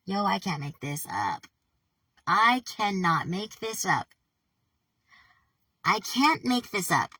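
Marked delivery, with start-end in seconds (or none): 2.3-7.1 louder, slow disbelief; slow, stunned protest; freaked out. Real, not acted. Reader rattled by an eerie email, freaked out. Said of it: "I'm getting fucking nervous".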